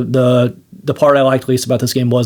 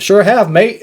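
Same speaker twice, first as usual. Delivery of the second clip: higher-pitched mock British voice actor; badly faked British, pitched up; bad British accent; 7 semitones higher, slower than usual. Voice actor answering a colleague, bad British accent. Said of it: "it's such a bad British accent".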